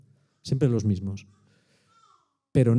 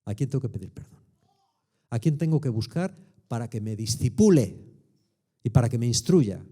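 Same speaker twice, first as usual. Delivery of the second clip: humble prayer; 3 semitones lower than usual. Retold or imitated. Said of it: "me pongo delante de Dios y le digo".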